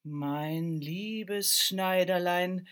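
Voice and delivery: the wind gently reminds the tailor of his duty. Acted. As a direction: breathe the words like a drifting wind.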